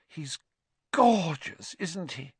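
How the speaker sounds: adoring, high on the key word; glowing. A narrator's reading. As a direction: gush fondly over a new pet.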